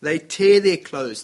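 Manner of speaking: forceful dramatic repeat. Acted. Dramatic retelling of Joshua.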